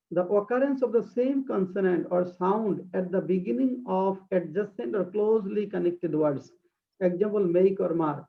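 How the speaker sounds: very slow, deliberate reading of a definition; slow dictation. Shown as a demonstration. Teacher reading a definition aloud to her class, slow dictation. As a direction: read it word by word for students to copy. Reads English definition slowly.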